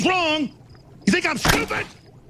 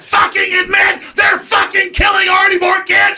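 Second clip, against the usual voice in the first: furious yelling, higher and louder; angry shout; 6 semitones higher, 3 dB louder than usual. Real, not acted. The speaker yelling at Joe about the Senate vote, furious shout. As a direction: rage at him over the vote.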